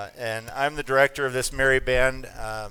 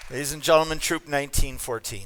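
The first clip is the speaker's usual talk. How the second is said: announcing; 3 semitones higher, 5 dB louder than usual. Real, not acted. Director announces troop to audience.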